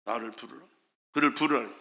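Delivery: low, soft command; hushed, low-pitched instruction; quiet summons. Retold or imitated. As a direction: imitate Jesus calmly calling for someone. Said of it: "그를 불러요".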